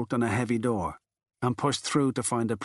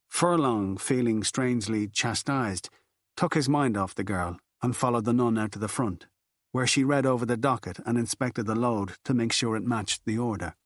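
ordinary delivery

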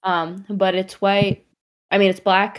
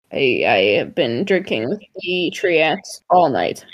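put-on stumbling, swooping drunk apology; tipsy excuse; 4 semitones lower than usual. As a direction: slip and slide through a boozy excuse. Character excuses self as drunk.

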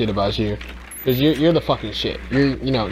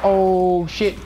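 high startled curse; sudden high panic; startled cursing; 7 semitones higher, slower than usual. Real, not acted. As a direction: yelp it like you just got caught. Sudden danger in game.

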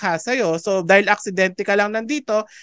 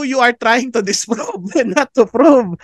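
laughing; 2 semitones higher, 4 dB louder, slower than usual. Acted. Amused punchline of the argument.

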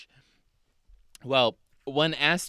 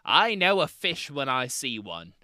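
slow, indignant Australian quote; lightly put-on Australian witness; bad Australian accent; 4 dB louder, slower than usual. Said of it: "there will be bad Australian accents".

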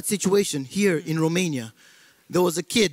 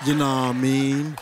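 American accent; 4 semitones lower than usual. Shown as a demonstration. Comic posing as American to a Romanian, low American accent. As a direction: drop the pitch for a put-on American accent. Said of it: "The American accent".

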